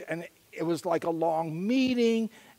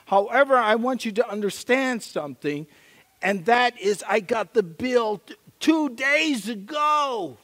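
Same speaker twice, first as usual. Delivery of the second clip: earnest confession; 3 semitones higher, 3 dB louder than usual. Retold or imitated. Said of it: "and I said".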